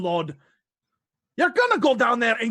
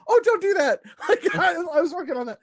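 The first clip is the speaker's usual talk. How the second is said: meek husband whine; 8 semitones higher, faster than usual. Acted. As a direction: plead like a henpecked husband. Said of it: "And Gregor's like".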